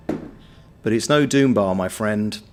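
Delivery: mock-solemn verdict. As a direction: lament it slowly like a connoisseur.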